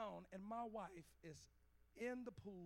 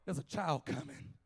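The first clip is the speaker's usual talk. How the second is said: firm, raised preaching voice; preaching exhortation; 16 dB louder than usual. Real, not acted. Preacher tells those ready to quit to hold on, exhorting. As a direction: preach encouragement to the weary.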